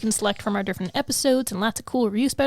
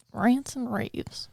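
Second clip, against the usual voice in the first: announcer drawl, very slow; slow drawn-out announcement; 6 dB quieter, much slower than usual. Shown as a demonstration. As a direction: stretch each word out slowly.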